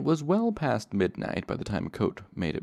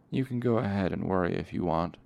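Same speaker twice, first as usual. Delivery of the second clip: dry. Acted. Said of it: "Coat said dryly".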